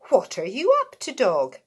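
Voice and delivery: a nosy little pig asking. Acted. Pig voiced.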